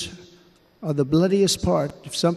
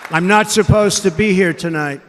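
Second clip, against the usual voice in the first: emphatic, louder; 3 semitones higher, 5 dB louder than usual. Real, not acted. Repeated line, loud then hushed.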